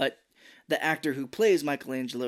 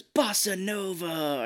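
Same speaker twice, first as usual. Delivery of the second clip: slow, higher nerdy announcement; drawn out; 7 semitones higher, much slower than usual. Retold or imitated. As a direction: stretch out each syllable. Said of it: "he goes".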